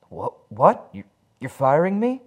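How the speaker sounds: high, loud shocked disbelief. Acted. Harry stunned at being fired, shocked high voice. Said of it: "Harry is shocked".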